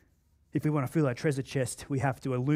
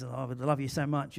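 adoring wife; 4 semitones lower, 8 dB quieter than usual. Retold or imitated. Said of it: "stare at you with, twinkly eyes".

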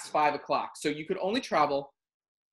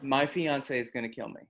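lower, dead-straight serious voice; straightest voice; 5 semitones lower, 3 dB quieter than usual. Retold or imitated. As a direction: play it completely straight and deep. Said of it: "in the straightest voice I can do".

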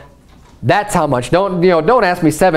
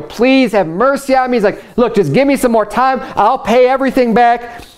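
higher, pleading plea for more time; pleading servant; 6 semitones higher than usual. Retold or imitated. Servant begging his king, pitched higher and pleading. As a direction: beg the king like a desperate debtor.

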